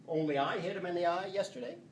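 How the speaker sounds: "Only" stressed at the start. Shown as a demonstration. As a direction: lean on the first word "Only". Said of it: "When I insert this word "only".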